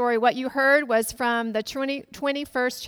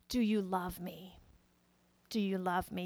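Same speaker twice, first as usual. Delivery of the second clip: gentle Jesus; 4 semitones lower, 9 dB quieter than usual. Retold or imitated. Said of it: "and he says".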